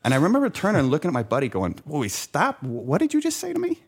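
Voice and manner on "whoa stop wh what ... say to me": retold shock. Retelling shock at lunch comment.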